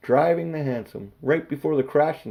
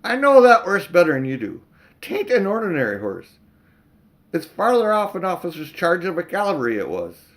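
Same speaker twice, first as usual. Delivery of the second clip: put-on cockney accent; 6 semitones higher, 7 dB louder than usual. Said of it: "my accent is so horribly bad".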